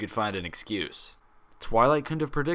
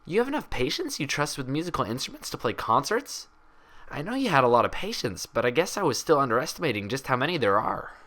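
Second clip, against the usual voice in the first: put-on lightly raised, curious young mare; higher, inquisitive unicorn voice; Twilight voice; 5 semitones higher than usual. Twilight questioning Applejack in the hallway, curious higher voice.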